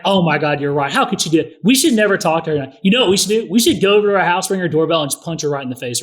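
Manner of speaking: mock-furious dad siding with his daughter; over-the-top parent. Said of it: "I tend to over-exaggerate".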